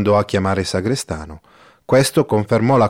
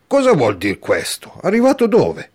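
surprised question; 9 semitones higher than usual. Acted. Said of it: "domanda Don Abbondio alzandosi".

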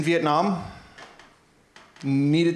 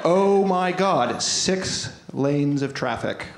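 excited; 4 semitones higher than usual. Real, not acted. Retelling a wild scooter ride.

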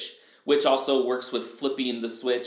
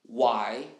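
calm self-question; 4 semitones lower, 3 dB quieter, slower than usual. Shown as a demonstration. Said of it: "You literally ask".

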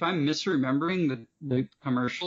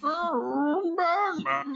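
high mock cry; much slower than usual. Mocking the Bane line back.

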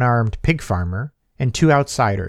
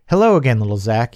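gravelly voice; faster than usual. Acted. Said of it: "he said in a gravelly voice".

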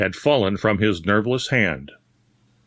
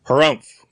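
grunted harumph; 5 semitones higher, 6 dB louder than usual. A narrator's reading. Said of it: "grunted Doctor Stoughton".

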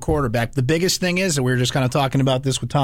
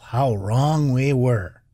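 mock regret; much slower than usual. Real, not acted.

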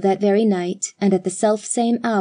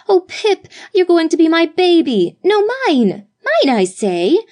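put-on much higher, louder squabbling girls; raised excited voices; 8 semitones higher, 5 dB louder than usual. A narrator's reading. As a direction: shout to claim the baby first. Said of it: "all three voices were raised".

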